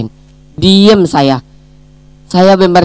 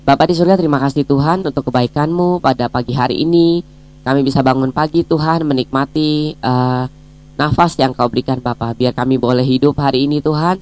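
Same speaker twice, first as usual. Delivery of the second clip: softer, even-toned prayer; opening prayer; 5 dB quieter than usual. Real, not acted. Speaker leading colleagues in morning prayer before a devotional, quiet praying. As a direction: pray quietly and reverently to God.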